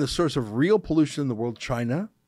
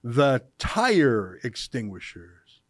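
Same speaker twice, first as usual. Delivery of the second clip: slow mocking read; 4 semitones lower, much slower than usual. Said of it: "But look at how it ends".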